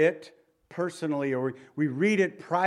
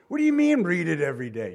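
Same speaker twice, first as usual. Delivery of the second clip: mocking skeptic; 4 dB louder, faster than usual. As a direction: sneer it like an unbeliever would. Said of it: "People who aren't believers think".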